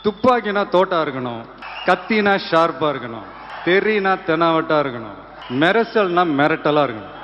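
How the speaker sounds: swaggering movie one liner. Shown as a demonstration. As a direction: deliver it like a cocky film hero. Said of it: "ஒரு punch dialogue ஒண்ணு சொல்லிட்டு போறேன்".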